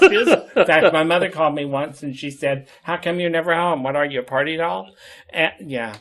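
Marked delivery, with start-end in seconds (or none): 2.8-4.9 put-on mother's scolding in a Bronx Jewish accent. Mother phoning her partying daughter, Bronx Jewish accent. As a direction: imitate a Jewish mother from the Bronx, a little louder. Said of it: "in her Jewish accent".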